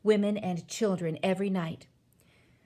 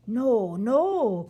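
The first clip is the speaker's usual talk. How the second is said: loud, higher-pitched protest; raised, urgent protest; cried denial; 3 semitones higher, 6 dB louder than usual. A narrator's reading. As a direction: cry out a desperate denial. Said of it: "cried the B F G".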